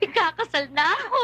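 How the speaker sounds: giddy laugh into the news; laughing announcement. Acted. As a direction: burst out laughing with joy. (natatawang anunsyo)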